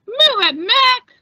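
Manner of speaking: loud, high yell at a fellow trucker; gruff shout. Acted. Trucker yelling at Mick to move, loud shout. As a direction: bark it across the yard.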